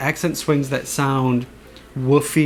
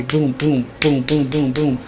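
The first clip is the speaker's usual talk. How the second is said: mouthed clash booms. Shown as a demonstration. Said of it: "they have to be".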